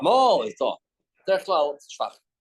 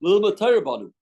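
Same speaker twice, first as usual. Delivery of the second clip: proclaiming sages; 4 semitones higher, 6 dB louder than usual. Acted. Rabbi voicing sages' reply.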